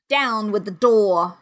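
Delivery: a slow, understated villain's cry; mild cry of command. A narrator's reading. Blind beggar ordering his men at the door, mildly cried. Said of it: "he cried".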